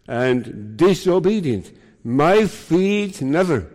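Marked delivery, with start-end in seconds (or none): 2.0-3.7 "My feet" slow and drawn out, set against "never"; stark contrast. Shown as a demonstration. Preacher showing Peter's contrast in Greek, slow, emphatic stress on "My feet". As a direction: stretch "My feet", then land "never" with a fall. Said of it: "Very stark contrast in Greek".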